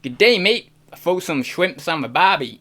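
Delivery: clumsy, hammed-up Australian accent; bad Australian accent. Shown as a demonstration. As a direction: try a stereotypical Aussie, badly. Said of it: "it's so bad".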